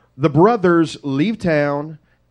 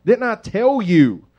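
Reuben scolding; 4 semitones higher than usual. Acted. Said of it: "Reuben... speaks up and says".

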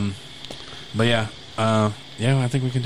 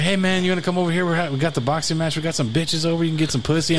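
party guy voice; 5 semitones higher than usual. Retold or imitated. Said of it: "he was like".

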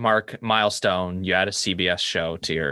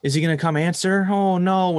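mock crying; 8 semitones higher than usual. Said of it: "she's crying".

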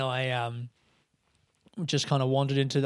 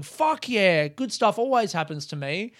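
higher-pitched, imitating someone thrilled with their luck; upbeat mock celebration; 4 semitones higher than usual. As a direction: play a cocky little cheer. Imagined upbeat reaction to luck.

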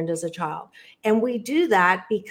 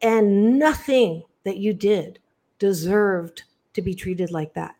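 loving reassurance. Real, not acted. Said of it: "lovingly say to you".

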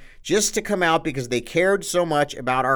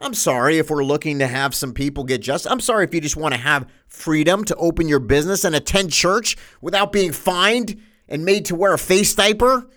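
sarcastic. Acted. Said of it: "I'm being a little sarcastic today".

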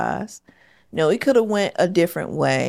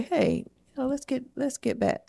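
low-toned, not upset. Shown as a demonstration. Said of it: "low toned way, but not in an upset way".

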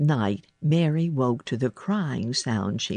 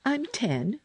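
put-on higher-pitched girl introducing herself; Mary; 9 semitones higher, 3 dB quieter than usual. A narrator's reading. Girl answering the sick boy, high and composed. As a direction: announce it in a raised girl's voice.

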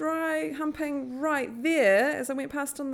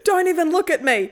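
mock rebuff; 7 semitones higher, 10 dB louder than usual. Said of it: "answer to the beautiful eyes comment".

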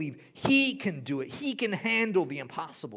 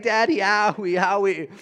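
put-on whiny toddler; 6 semitones higher, 9 dB louder than usual. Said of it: "she's like".

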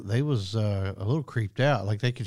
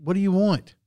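mock startled shout; 9 semitones higher, 5 dB louder than usual. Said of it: "he goes".

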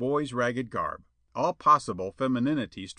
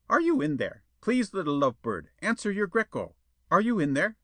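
high, louder whining plea; pleading; 8 semitones higher, 4 dB louder than usual. A narrator's reading. Suitor pleading with Jetta through the window. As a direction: beg her to answer. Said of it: "then fell to pleading".

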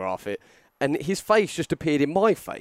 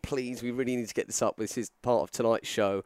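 mild pleading; 2 semitones lower, 6 dB quieter than usual. Retold or imitated. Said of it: "begging me".

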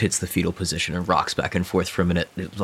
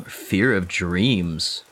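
slow echo; much slower than usual. Real, not acted.

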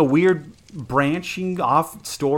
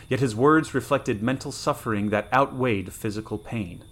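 story narration. A narrator's reading. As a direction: read it like an old pulp adventure, taking your time.

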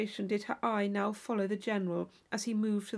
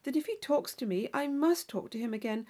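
put-on lightly higher, eager young lady; a hint of a naive girl chatting at a ball; Catherine's voice; 4 semitones higher than usual. Young Catherine chatting with her dance partner, lightly eager.

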